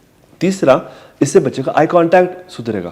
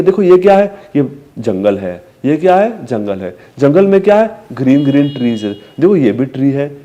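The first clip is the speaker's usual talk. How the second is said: put-on describing scenery to a child. Shown as a demonstration. Parent describing the jungle picture to a toddler, sing-song. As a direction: point out the jungle brightly. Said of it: "फिर आप describe करोगे माहौल".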